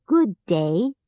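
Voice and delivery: lightly voiced odd scarecrow; scarecrow greeting. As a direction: greet stiffly, like straw. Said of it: "said the scarecrow".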